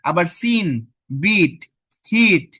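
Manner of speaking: বিট and হিট called out loud and clear, each on its own; loud classroom drill of সিন, বিট, হিট; clear model words. Shown as a demonstration. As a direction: call out বিট, হিট with a strong ee. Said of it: "সবগুলোর sound কি ই উচ্চারণ হচ্ছে".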